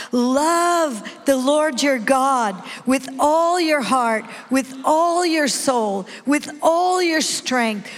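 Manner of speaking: drawn-out, emphatic recital with punched ALLs; rousing group recitation. Shown as a demonstration. Preacher rallying a wimpy congregation to recite together, rousing. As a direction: lead the crowd in a strong, measured chant. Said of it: "oh, it's a little wimpy. Come on".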